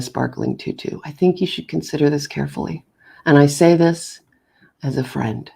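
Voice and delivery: hammed-up solemn advice with long pauses; mock sage counsel. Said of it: "act like a total ridiculous ham".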